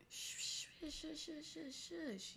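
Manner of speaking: high, hushing royal lemur voice; a light take on King Julian; King Julian impression. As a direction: shush them like a pompous lemur king. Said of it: "King Julian is like".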